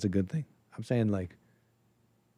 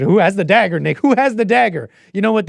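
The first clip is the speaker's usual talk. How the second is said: louder, frustrated, throwing up hands; exasperated outburst; 5 semitones higher, 7 dB louder than usual. Real, not acted. Streamer gives up sorting out the groups, loud and exasperated. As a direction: blurt it out, fed up.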